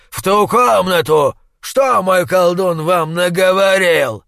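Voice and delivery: громкий яростный допрос; требуй ответа в ярости; ярость. A narrator's reading. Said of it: "озарились яростным огнём". (яростный допрос)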